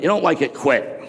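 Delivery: mocking Gary V. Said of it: "this whole bit about".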